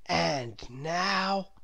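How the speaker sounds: lightly voiced grown-up; lightly voiced guide; Mister Daydream. A narrator's reading. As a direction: announce the next trip. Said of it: "said Mister Daydream".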